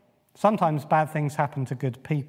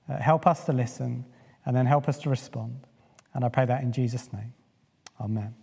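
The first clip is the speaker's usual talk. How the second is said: prayer. Acted. Pastor prays before the sermon.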